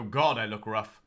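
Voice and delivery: preening at himself in the mirror; purring with smug vanity; vain self-admiring. Pretend. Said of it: "and go".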